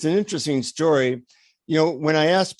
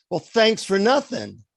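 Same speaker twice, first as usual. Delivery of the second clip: retold sour sarcasm, higher pitch; acted huffy brush-off, raised pitch; pissed off; 6 semitones higher than usual. Disappointed visitor to guru, pissed off. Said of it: "I'm totally pissed off".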